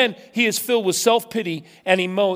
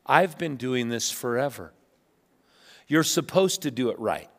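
grudging perfectionist; 6 semitones lower, 6 dB quieter than usual. Retold or imitated. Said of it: "you look at all of us and go".

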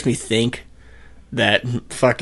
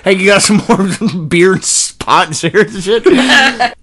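laughing, higher New York voice; New York accent; 7 semitones higher, 5 dB louder than usual. Retold or imitated. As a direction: ask for beer and pot, New York style. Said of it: "I made him New York".

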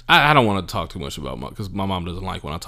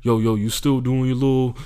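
louder, mocking imitation of a nosy acquaintance; mock pestering acquaintance; 3 semitones higher, 6 dB louder than usual. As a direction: imitate someone hollering a casual question. Imitating people's annoying casual questions.

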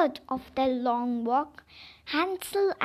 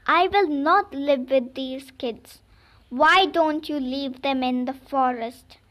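louder, harsh stepmother complaint; wicked stepmother; 6 dB louder than usual. Acted. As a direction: demand it like a cruel stepmother. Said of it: "cruel stepmother complained".

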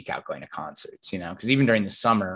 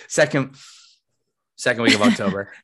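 laughing self-mockery; 4 dB louder than usual. Real, not acted. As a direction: laugh while repeating. Mocking own mistake, laughing.

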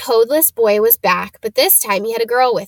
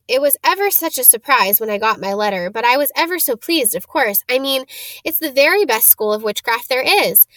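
very fast; 2 semitones higher than usual. Acted. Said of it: "She said all this very fast".

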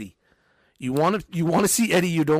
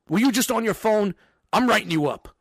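a hint of a by-the-book manager; mock strict boss; 5 semitones higher than usual. Boss parodies the strict manager he refuses to be. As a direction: snap it like a corporate write-up. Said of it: "I don't try to be like".

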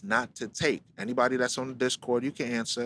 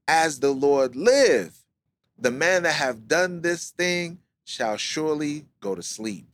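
angry oath; 3 semitones higher, 4 dB louder than usual. Acted. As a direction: swear it out loud like a furious king. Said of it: "David's anger was greatly kindled".

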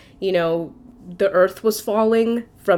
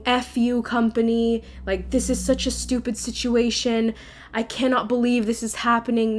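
mildly indignant, pitched a bit higher; retold swearing; 3 semitones higher than usual. Crying in bed, swearing at the company, mild retold indignation. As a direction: replay a rant with only a touch of anger. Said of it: "I was swearing at the company".

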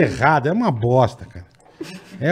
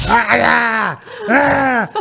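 higher, hammed-up vampire scare yell; mock scare yell; 8 semitones higher, much slower than usual. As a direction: jump out with a fake scary yell. Kid scaring in vampire costume. (grito de susto fingido)

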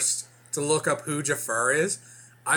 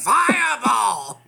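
high, slow, shouted lich screech; ancient lich voice; 9 semitones higher, 7 dB louder, much slower than usual. Acted. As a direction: gloat like a defeated undead king. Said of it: "all I can hear is Gilbert Gottfried now".

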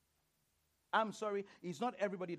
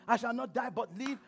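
mock declaration; 4 semitones higher, 4 dB louder than usual. Mocking churchgoers' declarations.

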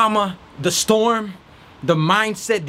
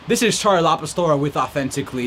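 lower, brisk reporter sign-on; 3 semitones lower than usual. Shown as a demonstration. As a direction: introduce it like a news anchor. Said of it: "I feel like I'm back in reporter mode".

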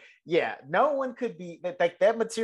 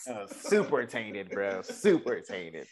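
drawn out; 7 semitones lower, much slower than usual. Real, not acted. Repeats phrase slowly, lower.

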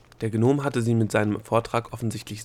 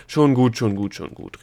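exasperated, loud first burst, then easing; annoyed; 8 dB louder than usual. A narrator's reading. Gnome brushing off the Egozette's claim, annoyed. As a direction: cut it off with a loud first word. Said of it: "rief der Gnom genervt".

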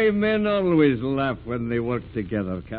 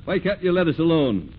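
indignant protest; 6 semitones higher, 4 dB louder than usual. Acted. Skipper confronts the captain.

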